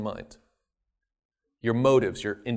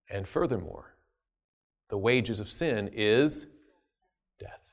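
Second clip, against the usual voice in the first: low, soft, grave verdict; solemn judgment; 6 semitones lower, 8 dB quieter than usual. Acted. God to Lucifer before heaven, low and grave. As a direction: speak as a quiet, final judge.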